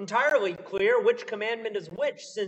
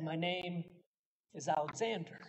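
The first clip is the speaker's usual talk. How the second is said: soft, meek reply; 2 semitones lower, 8 dB quieter than usual. A narrator's reading. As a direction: answer timidly under your breath. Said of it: "the soldier meekly said".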